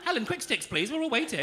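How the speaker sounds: high-pitched, teasing hurry-up; mock impatience. Hurries a slow audience member.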